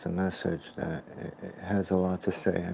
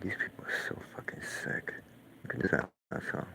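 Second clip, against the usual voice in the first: hushed mock quote; 5 dB quieter than usual. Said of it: "They're like".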